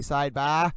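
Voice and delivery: Massachusetts Side Bar with the R dropped, "Side Bah"; Boston accent, no R. Shown as a demonstration. Livestreamer shows his Massachusetts way of saying it, Boston accent. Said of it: "we don't say the R's on the end of words".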